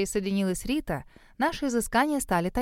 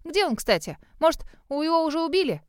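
higher, offhand snort; scornful dog; dismissive; 7 semitones higher than usual. A narrator's reading. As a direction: toss it off with disdain. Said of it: "пренебрежительно фыркнула Жозефина".

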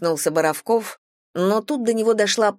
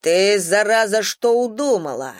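indignant; 4 semitones higher, 4 dB louder than usual. Acted. Stasik outraged at the pickpocket, loud and indignant. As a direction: snap at the thief in outrage. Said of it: "возмутился Стасик".

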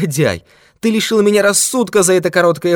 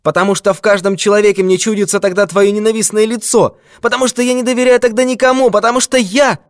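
much higher, rushing frantic outburst; frantic cry; 9 semitones higher than usual. Acted. Old miser cries out his fear of the thief, frantic. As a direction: voice climbs until it breaks off. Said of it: "закричал Канцер".

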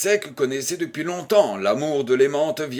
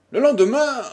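lendemain; 10 semitones higher, 6 dB louder than usual. Shown as a demonstration. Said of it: "Le lendemain de son retour".

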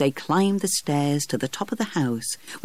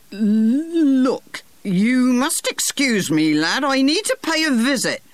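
put-on high, slow old fellow excusing himself from the boy; a fussy old gardener, pitched well up; 10 semitones higher, 4 dB louder, slower than usual. Old gardener politely excusing himself to the boy, high put-on voice.

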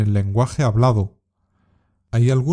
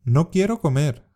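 "No quiero comer." said higher, with "quiero" stressed and falling; sulky refusal; 4 semitones higher than usual. Shown as a demonstration. Teacher demonstrating a sulky refusal for learners to repeat. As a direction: complain like a child refusing food. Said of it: "Repite después de mí".

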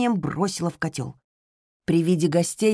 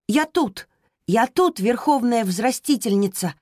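put-on boy shouting back; 5 semitones higher than usual. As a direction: call back running in. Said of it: "крикнул в ответ мальчик". (мальчик кричит в ответ)

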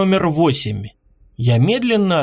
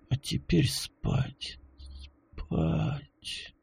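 fading to a soft near-whisper; drifting off; 14 dB quieter, much slower than usual. A narrator's reading. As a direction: let the words fade into sleep. Hero drifting into sleep. (затихая, засыпая)

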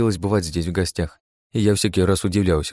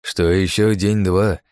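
triumphant. Acted. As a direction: savor each word of the secret. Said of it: "торжествующе улыбнулся".

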